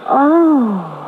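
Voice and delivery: a catching, tearful "Oh"; frightened gasp. Acted. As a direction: fear breaking in. Wife realizes they are gangsters.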